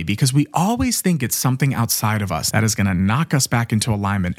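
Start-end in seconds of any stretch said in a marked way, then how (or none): 2.9-4.4 "knock" stressed, the rest falling away. Real, not acted. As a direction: lean on the word "knock". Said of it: "Emphasis on the word knock".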